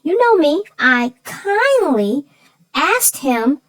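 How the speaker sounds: slow, drawn-out kindly with a knowing edge; not-so-kindly. Retold or imitated. Telling her co-host about the neighbor, ironic slow kindly. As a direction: lean on kindly so everyone hears it wasn't. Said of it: "We know your version of kindly".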